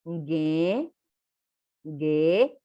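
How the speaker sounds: GE held long and low, through the nose; nasal consonants. Shown as a demonstration. Teacher asks learners to repeat after her, GE sounded through the nose. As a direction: model GE nasally for repetition, drawn out. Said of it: "por la nariz".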